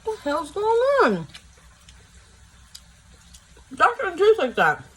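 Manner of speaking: high, loud disbelief at the taste; amazed outburst. Real, not acted. Eater stunned by how good it tastes, amazed outburst. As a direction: cry out as if the flavour makes no sense.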